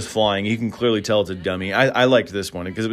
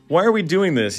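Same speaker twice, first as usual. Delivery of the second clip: put-on a high, giggly girl's voice; lightly voiced high-pitched girl; higher girlish voice; 9 semitones higher than usual. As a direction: play a silly girl at a pillow fight. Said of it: "one says".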